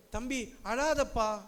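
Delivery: slow, soft and kind; gentle judge. Retold or imitated. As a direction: soothe a crying boy gently. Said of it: "அப்படின்றாரு".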